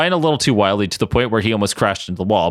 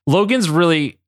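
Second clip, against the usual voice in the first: smooth, hesitant then confident praise; charismatic; 5 semitones higher, slower than usual. Acted. Ryan covers for Logan to Madeline, charismatic. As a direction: vouch for him with some charm. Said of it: "Ryan said charismatically".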